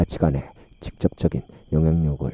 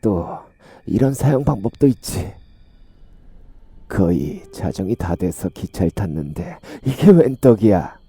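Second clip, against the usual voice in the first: gloating senior villain; 3 semitones higher than usual. Acted. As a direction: relish the tale like a predator bragging to his junior. Senior gleefully recounts his prey. (신나서 떠벌리는 악당 목소리)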